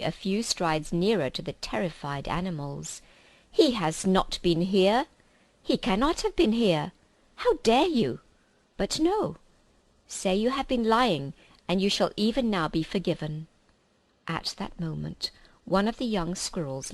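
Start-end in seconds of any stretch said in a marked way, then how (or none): 3.5-13.5 rage, then bargain coldly; furious witch queen. Acted.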